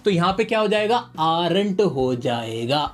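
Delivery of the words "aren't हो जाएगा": drawn out, lower, dwelling on aren't; slow emphasis. Shown as a demonstration. Teacher drilling the rule into students, very slow. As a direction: stretch aren't so it sticks. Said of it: "याद रख लेना, घोल के पी जाना".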